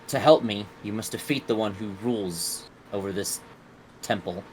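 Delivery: a somber spirit naming its task; a touch of a brooding genie; grave genie. Acted. Genie names the temple's ruler.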